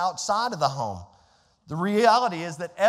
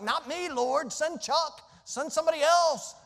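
pleading; 7 semitones higher than usual. Retold or imitated. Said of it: "I was like".

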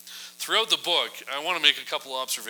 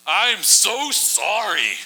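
higher, louder, slow desperate pleading; begging; 4 semitones higher, 6 dB louder, slower than usual. Retold or imitated. Haman begging Queen Esther for mercy, desperate slow plea. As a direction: beg for your life, drawn out. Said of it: "so he's begging".

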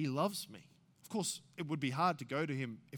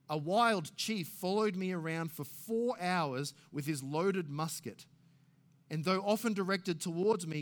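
higher, louder, slowed reading; impassioned reading from the journal; dramatic journal reading; 4 semitones higher, 5 dB louder than usual. Acted. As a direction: read the missionary's words with fervour. Reading Paton's journal aloud.

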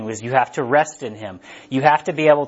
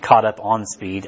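slow, lowered replay of "on speed"; slow self-correction; 4 semitones lower, slower than usual. Shown as a demonstration. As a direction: caught up ON speed, said slowly and lower. Correcting own slip of phrase.

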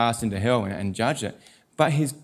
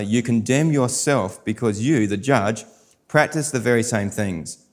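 measured, solemn reading of the passage; scripture reading. Acted. Pastor reading Romans to congregation, solemn scripture reading.

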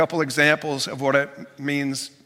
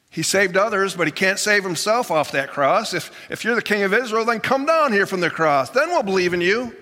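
lightly voiced sneering jeer, higher; mocking crowd taunt; 5 semitones higher than usual. Preacher voicing crowd jeering at Jesus on the cross, mild mocking. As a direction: taunt him like the scoffing crowd.

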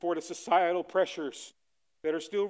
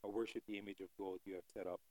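defiant vow to king; 8 semitones lower, 13 dB quieter than usual. Retold or imitated. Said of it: "He says".

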